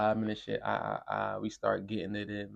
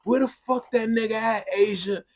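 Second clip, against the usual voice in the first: higher, louder mom yelling through the house; mom barking; 12 semitones higher, 7 dB louder than usual. Retold or imitated. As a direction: bark it like an angry mom hunting someone. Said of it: "this is how her mom was barking".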